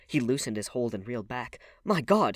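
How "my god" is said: high, loud gasped exclamation; shocked high cry; horrified cry. A narrator's reading. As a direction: cry out aghast at your own mistake. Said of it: "he cried".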